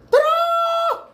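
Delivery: loud, high call across the house. Real, not acted. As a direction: shout the name to someone far off. Calling out again.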